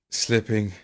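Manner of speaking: drowsy mock fade-out; mock fading. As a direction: let the words slip away. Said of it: "Feel my consciousness slip".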